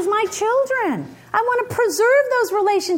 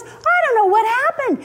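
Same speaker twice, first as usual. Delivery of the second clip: higher-pitched imitated kid; earnest son explaining; 5 semitones higher than usual. Son explaining himself to his mother, high and earnest. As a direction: plead innocence in a raised pitch.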